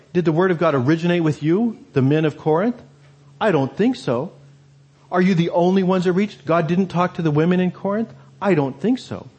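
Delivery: mild mocking rhetorical questions; lightly sarcastic, dismissive retort; sarcastic Paul. Paul scoffing at the men of Corinth, mildly sarcastic. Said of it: "Paul is being sarcastic".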